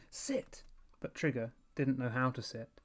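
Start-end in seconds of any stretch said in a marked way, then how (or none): 0.1-0.6 whispered sit; desperate whisper. A narrator's reading. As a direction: hiss it in panic. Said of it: "Evan screamed".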